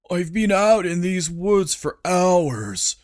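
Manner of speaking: whining, complaining voice; whiny Huncules. Acted. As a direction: whine it like a sulky servant. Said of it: "Huncules whined".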